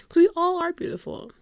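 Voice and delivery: high, loud affirmation; heartfelt gush. Real, not acted. Fan agreeing everyone is beautiful, emphatic high gush. Gushes, then echoes softly.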